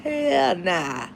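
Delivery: drawn-out Mississippi country drawl, imitated; country accent. Stepdad from Jackson refusing, mock country accent. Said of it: "He have a country accent".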